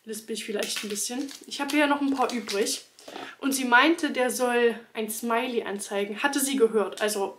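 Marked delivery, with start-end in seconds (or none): 1.5-2.8 talking with gum in mouth; slight lisp from chewing gum. Real, not acted. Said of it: "ich habe Kaugummi im Mund".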